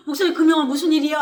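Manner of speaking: tearful, fast and loud; crying. Retold or imitated. Girl crying as she bursts into the pastor's office. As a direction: blurt it out through tears. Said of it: "울면서 들어오니까".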